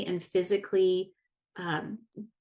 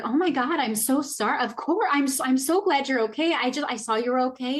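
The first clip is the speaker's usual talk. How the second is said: imitating mom; 4 semitones higher than usual. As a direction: play the apologetic, flustered mother. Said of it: "and she's like".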